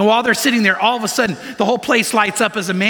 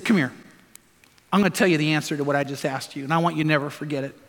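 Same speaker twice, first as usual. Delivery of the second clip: lower, softer, hushed and faster; tender reassurance; 5 semitones lower, 3 dB quieter than usual. Retold or imitated. Pastor quietly comforting the mocked boy, tender and hushed. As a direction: draw him close and quietly reassure him.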